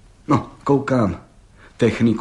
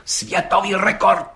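slow, higher, ceremonious words; solemnly; 8 semitones higher than usual. A narrator's reading. Hejda repeating the record to the judge, solemnly. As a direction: announce it like a proclamation. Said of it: "opakoval četník Hejda slavnostně".

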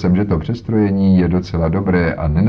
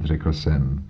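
ordinary delivery

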